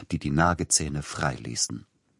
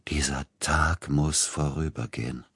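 whisper; 2 semitones lower, 3 dB quieter than usual. Acted. Inner thought, alone in dark.

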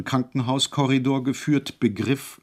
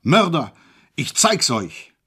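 higher, louder bawled threat; bawling; 5 semitones higher, 5 dB louder, slower than usual. A narrator's reading. Alone in isolation, he bawls threats, loudly. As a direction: bawl it at the walls. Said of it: "gröhlte".

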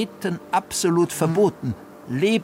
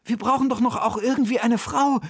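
higher voiced quoting a message; lightly raised character voice; 10 semitones higher than usual.

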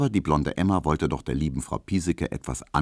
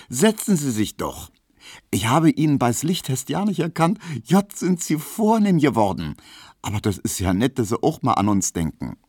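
lightly voiced Berlin landlady, higher; chatty Berlin landlady, pitched up; landlady surprised by a fancy visitor, higher chatter; Frau Piesecke; 8 semitones higher than usual. Frau Piesecke greets Emma.

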